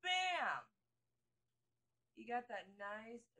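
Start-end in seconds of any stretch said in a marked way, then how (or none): 0.0-0.7 very high, loud squealing delight; gushing high-pitched hype at the mirror; excited squeal. Real, not acted. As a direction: shriek with joy at the result. Excited over finished eyeliner.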